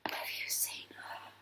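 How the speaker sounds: breathy hushed gossip; whisper. Retold or imitated. Admirers whisper about the Leo in a hushed voice. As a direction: lean in and whisper it.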